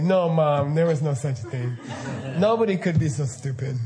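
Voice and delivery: lightly voiced kid, laughing; a hint of a scoffing child; child's laughing disbelief. Kids telling their mom it's impossible, laughing. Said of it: "kids will say".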